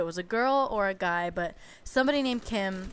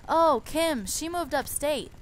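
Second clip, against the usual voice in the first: high, slow, airy brush-off; mocking the salon guy's carefree tone; breezy nail guy; 7 semitones higher, slower than usual. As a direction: toss off the excuse lightly.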